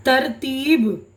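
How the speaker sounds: drawn out very slowly, syllable by syllable; very slow word demo. Shown as a demonstration. Teacher sounding out a new word slowly to students. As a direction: spell the word out slowly for a class. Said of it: "अब देखिए अगला हरूफ जो है".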